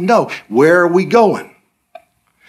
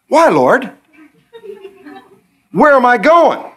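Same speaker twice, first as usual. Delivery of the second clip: pleading questions; 9 semitones higher than usual. Retold or imitated. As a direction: beg God for answers. Believer questioning again.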